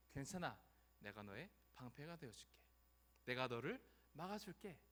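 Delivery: soft, gentle promise; reassuring God. Acted. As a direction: quietly comfort someone afraid. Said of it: "라는 말씀을 들려주신 것입니다". (다독이듯 부드럽게)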